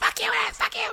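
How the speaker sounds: heated, frantic, very high outburst. Retelling a street confrontation, imitating a woman screaming in a man's face. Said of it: "and screaming in his face".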